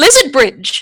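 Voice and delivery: thrilled, eager, very excited exclamation. In character, telling Arcady an idea: very excited. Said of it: "I very excitedly say to Arcady".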